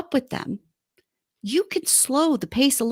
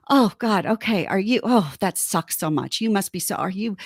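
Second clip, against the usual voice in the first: lower, easing-off sympathy; slowly calming down; 5 semitones lower than usual. Acted. Partner easing an upset person down, calming sympathy. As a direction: bring the pitch down as you commiserate. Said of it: "slowly calming down".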